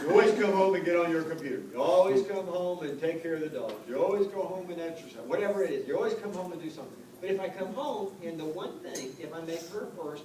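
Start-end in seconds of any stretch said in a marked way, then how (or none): 0.0-6.9 laughing, loud nagging wife impression; hammed-up complaint, laughing through it; mock nagging wife. Wife's complaint voiced, laughing.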